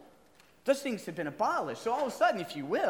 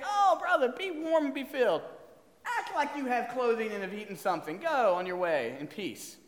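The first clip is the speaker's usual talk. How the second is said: mock pious blessing; 2 semitones higher than usual. Mocking an empty pious blessing.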